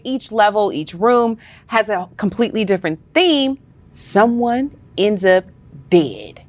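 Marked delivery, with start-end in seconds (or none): 3.9-6.4 dramatic reveal. Pretend.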